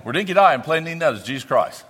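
fast broad Australian, "dinky die"; Aussie slang. Shown as a demonstration. Missionary demoing Aussie phrases to the congregation, fast Australian. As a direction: gabble the slang like a local. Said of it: "I'm gonna speak the Australian".

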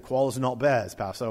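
rough imitation of an Aussie accent; badly faked Australian, said in passing; terrible Australian accent. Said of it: "Terrible accent. I do his Australian accent".

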